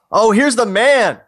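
loud, drawn-out hearty greeting; hailing. Acted. Friend greeting Dominic as he arrives, loud and hailing. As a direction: hail him like the star arriving. Script character hails Dominic.

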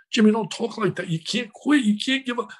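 mildly urgent, rising protest; urgent plea. Retold or imitated. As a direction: plead with a friend not to give up. Retold plea to dying friend.

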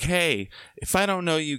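high-pitched call to a room, not a full shout; retold call-out. Host clearing strangers out of his house, retold call-out. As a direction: announce it high, acting out the host.

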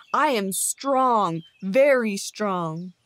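slow, loud, heavy bear voice; a menacing bear bragging, loud and slow; boasting bear. Acted. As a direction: loom over him and spell out your strength. Bear boasts, shaking his paw.

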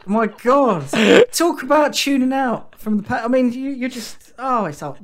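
high, loud exasperated telling-off; mock outrage. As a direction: play up the indignation at a partner who wasn't listening.

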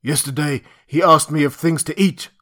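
loud, lightly voiced ape-man; a hint of an ape-man. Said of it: "said the ape-man".

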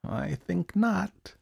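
high, very slow musing; high-pitched, pensive character voice; thoughtful murmur. A narrator's reading. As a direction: draw it out slowly, pondering. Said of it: "he murmured thoughtfully".

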